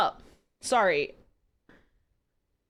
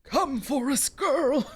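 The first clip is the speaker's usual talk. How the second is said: harsh demand; slower than usual. Acted. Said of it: "voice was harsh as he demanded".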